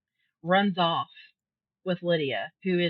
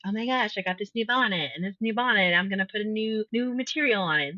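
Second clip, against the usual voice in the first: gushing Lydia; 3 semitones higher than usual. Retold or imitated. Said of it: "she sounds like Missus Bennet".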